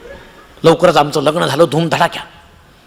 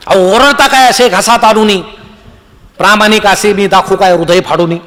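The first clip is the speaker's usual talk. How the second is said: poetic declamation; 5 semitones higher, 6 dB louder than usual. Retold or imitated. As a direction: declaim it like a grand poet on stage. Poet declaims verse to conductor.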